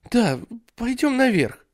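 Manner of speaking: put-on high whiny child; whining little boy. Ray whines to go upstairs, high whiny child. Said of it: "конючил Рэй".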